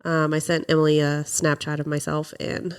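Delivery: stuffy nose from a cold; nasal, blocked-up sick voice; congested voice. Real, not acted. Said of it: "for my nasally congested voice".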